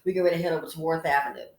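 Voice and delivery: loud fast brag. Shown as a demonstration. Host bragging to ladies about Worth Avenue shopping. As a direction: rattle it off proudly and loud. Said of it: "That's right".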